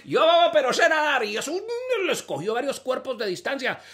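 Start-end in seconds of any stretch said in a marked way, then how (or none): 0.0-1.2 dim-witted swimmer voice. Acted. Character voice in joke.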